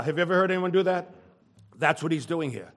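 ordinary talk

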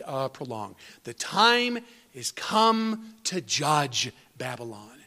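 slow, weighty reading of prophecy; measured pulpit reading of scripture; solemn scripture reading. Acted. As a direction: read the verses like a pronouncement of doom. Preacher reads scripture aloud.

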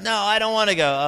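hammed-up bratty kid; whiny kid. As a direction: play the kid digging in at the playground. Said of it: "you say".

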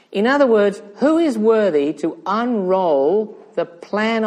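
slow, ringing rhetorical question; preaching. Real, not acted. Preacher asking who is worthy to unroll God's plan, preaching. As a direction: declaim it slowly to the whole congregation.

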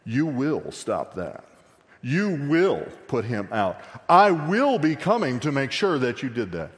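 booming dad voice, mildly put on; apostolic smackdown. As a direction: lay down the law, word by word. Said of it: "pull the ap-, apostolic smackdown".

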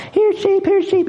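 timid high-pitched "Here, sheep"; kids calling sheep. Retold or imitated. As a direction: call the sheep like an embarrassed kid. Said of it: "the kids are, like, embarrassed".

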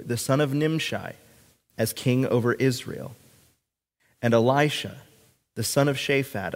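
measured, solemn Bible reading; scripture reading. Acted. Pastor reading God's command to the congregation, solemn scripture reading. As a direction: read it out deliberately, pausing between phrases.

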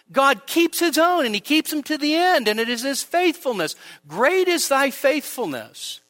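rising, impassioned pulpit delivery; preaching at full force. Acted. Pastor driving home God's faithfulness to the congregation, impassioned preaching. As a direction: build the sermon to its peak.

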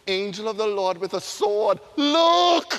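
donkey pointing out the angel, singsong. Pretend. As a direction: sing it out like a pleading donkey. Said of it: "the donkey is going".

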